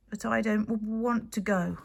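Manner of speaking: reasonable. Acted. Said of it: "equally reasonably".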